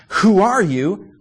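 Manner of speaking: challenging question. Pretend. Priests question John, loud and slow.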